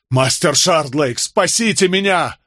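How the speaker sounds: slow, rising plea, high at the end; begging. A narrator's reading. Condemned man to his lawyer before the drop, desperate begging. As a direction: implore him, stretching the words. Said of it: "взмолился Болейн".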